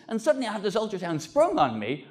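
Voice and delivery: usual speaking voice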